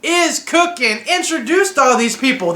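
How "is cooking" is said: drawn-out, sung-out high wrestler catchphrase; slow, sing-song The Rock impression, pitched up. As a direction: stretch it like a big arena hype line. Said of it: "The guy who coined".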